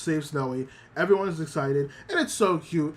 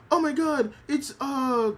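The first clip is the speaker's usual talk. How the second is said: excited dog voice; 10 semitones higher than usual. Retold or imitated. Voicing excited dogs.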